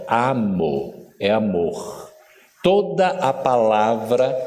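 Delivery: "Amo" said very slowly, then "amor"; slow teaching. Shown as a demonstration. Teacher introducing a new word to the audience, very slowly. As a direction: spell out the pair slowly for learners. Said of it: "Vamos lá para aprender rapidinho".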